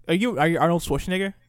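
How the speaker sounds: a tentative go at Nigerian-accented English; attempted Nigerian accent. Shown as a demonstration. Friend asked for a best shot, attempted Nigerian accent. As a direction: try the question in a Nigerian accent. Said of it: "give us your best shot right now".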